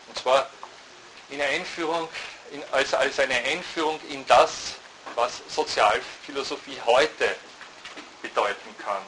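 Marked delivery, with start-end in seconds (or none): 4.1-7.4 slow, deliberate stress on "heute"; Betonung auf "heute". Real, not acted. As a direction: lean firmly on "heute" as the key word. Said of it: "ich betone dieses heute". ("heute" langsam und nachdrücklich betont)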